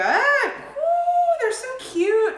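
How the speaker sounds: high squealing delight. Real, not acted. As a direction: coo over something cute. Delighted by nests.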